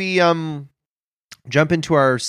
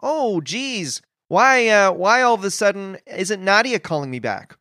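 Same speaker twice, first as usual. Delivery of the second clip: anxious inner voice; 4 semitones higher than usual. Retold or imitated. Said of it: "the monsters in your head say things like".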